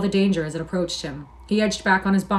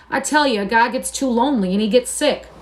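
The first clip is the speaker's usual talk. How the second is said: high, loud outburst; pouring out his loneliness; cried out; 5 semitones higher, 5 dB louder than usual. A narrator's reading. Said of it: "he cried".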